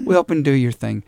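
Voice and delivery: imitated Irish mother, egging someone on; encouraging Irish accent. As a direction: urge them on in an Irish accent. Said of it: "That's me doing an Irish accent".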